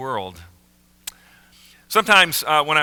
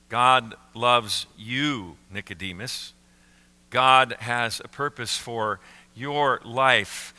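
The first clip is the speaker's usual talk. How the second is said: tender reassurance; 2 semitones lower, slower than usual. Retold or imitated. Jesus speaking personally to Nicodemus.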